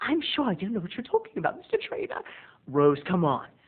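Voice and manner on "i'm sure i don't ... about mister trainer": mock overacted shock, higher and quieter. Retelling a scene where a young lady answers a suggestion with an exaggerated reaction. Imitating overacted shock. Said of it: "with his horrible acting".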